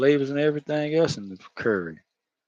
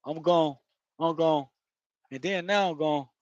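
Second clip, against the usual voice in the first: higher-pitched Florida talk; Florida accent; 4 semitones higher, 4 dB quieter than usual. Shown as a demonstration. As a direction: show how Floridians clip "gonna" to "gon". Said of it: "that's how we talk in Florida".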